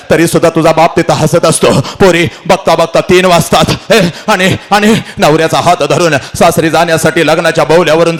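quick, urgent wedding narration; rousing emotional storytelling; impassioned oration. Acted. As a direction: paint the bustling scene at speed.

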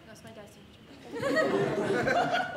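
drawn-out, slow insistence; slow stubborn denial. Retold or imitated. Kid stonewalling the teacher, slow and dragged out. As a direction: stretch each word stubbornly. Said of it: "So I said to her".

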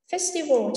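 "Festival" stressed on FES; slow "Festival", weight on FES; stress on first syllable. Shown as a demonstration. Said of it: "trọng âm số một". (nhấn âm đầu của "Festival")

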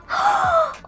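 sharp high gasp; high thrilled gasp; excited gasp. Real, not acted. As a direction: gasp in delight. Reaching level eleven.

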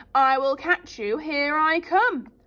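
loud, slow giant threat. Acted. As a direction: stomp after Jack. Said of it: "he shouted".

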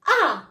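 high, loud أ as "a"; teacher modelling أ as a lone high "a"; fatha sound. Shown as a demonstration. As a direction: punch أ out as an open "a". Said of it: "غنقولو له".

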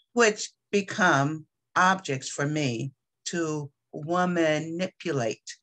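measured poetry reading with frequent pauses; poem reading. Acted. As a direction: read your poem deliberately, phrase by phrase. Reads own poem aloud.

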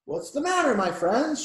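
high, concerned little-engine voice; kindly. A narrator's reading. Little engine to sad toys, kindly. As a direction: ask with friendly concern. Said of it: "she asked kindly".

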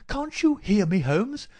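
loud, high and impatient question; insistent waking call. A narrator's reading. Visitor shakes the sick man awake, insistently loud. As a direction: shout as if to rouse a sleeper. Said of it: "the insistent tone of one who awakens a sleeper".

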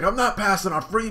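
high, loud stubborn Luffy; Luffy refusing to skip free food. Acted. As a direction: insist on it, high. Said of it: "He's like".

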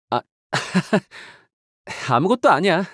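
a quick laugh, then 아무것도 아니야 tossed off lightly with a rise. Acted. To a companion, covering a slip with a light laughing brush-off. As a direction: laugh and wave the moment away.

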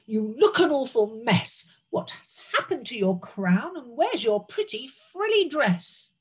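mildly outraged king; thundering scolding. Acted. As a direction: scold her as a cross uncle. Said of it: "he thundered".

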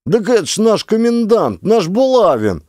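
high, slow, excited calling out; crowd shouting. A narrator's reading. A man in the crowd shouts, recognizing the commandant. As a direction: call out in recognition. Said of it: "заорали в толпе".

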